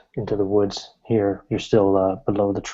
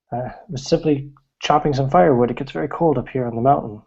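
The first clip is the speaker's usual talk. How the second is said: put-on much higher, cheery old hermit voice; old woodcutter voice; 3 semitones higher, faster than usual. Game master voicing the old woodcutter greeting a stranger, high cheery old voice. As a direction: greet the stranger like a jolly old mountain man. Old man explains himself.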